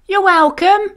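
high, loud sheep chorus; bleating herd. A narrator's reading. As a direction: bleat it together. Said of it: "bleated the herd".

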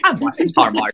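high-pitched, excited insistence; excited retort. Retold or imitated. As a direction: squeal it like an over-excited Christmas fan. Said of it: "I get excited".

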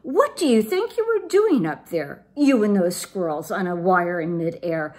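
high-pitched scolding mama. A narrator's reading. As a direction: tell off a child in exasperated alarm. Mama scolds her kitten son.

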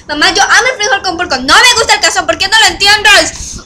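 exasperated whining at mom; whiny protest. Retold or imitated. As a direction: plead with rising frustration, near tears. Discusión con mamá, queja.

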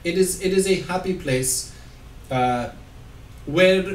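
lightly put-on Russian accent. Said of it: "German, Russian, something".

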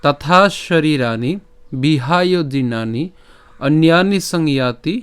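slow, measured shloka recitation with drawn-out long vowels; stately Sanskrit chanting, syllables held long; Sanskrit verse recitation. Shown as a demonstration. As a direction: recite the Gita verse slowly, phrase by phrase. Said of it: "শুদ্ধ সংস্কৃত উচ্চারণে".

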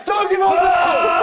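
slow, stretched shout of support; drawn-out cheer. Real, not acted. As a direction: drag the cheer out long. Cheering on push-ups.

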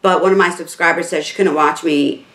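talking through swollen lips; fresh lip filler. Real, not acted. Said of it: "I talk a little funny right now".

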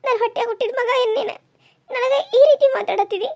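high, indignant rebuke; how dare my own son talk like this; shocked anger. Acted. Mother shocked at son's rudeness. (ಮಗನ ಮೇಲೆ ಎತ್ತರದ ಕೋಪದ ದನಿ)

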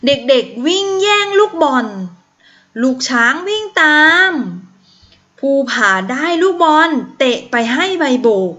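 lively storybook reading to the class; a teacher reading a picture book; reading to children. Acted. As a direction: read it out brightly for young pupils. Teacher reads story aloud.

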